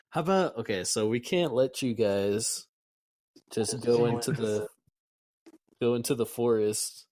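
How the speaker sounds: eager game-master character, loud in bursts; super excited. Acted. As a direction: pitch a pet scheme with eager energy. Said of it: "Ulrich's looking super excited".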